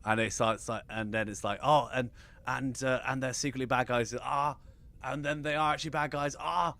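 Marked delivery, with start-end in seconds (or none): 1.6-6.7 mock mounting excitement. Host acting out a meme reaction, increasingly excited. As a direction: pitch climbing as amazement builds. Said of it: "he's really excited".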